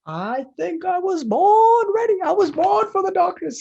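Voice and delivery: booming dramatic movie-villain voice; dramatic villain line. Pretend. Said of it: "Sorry, we already did this".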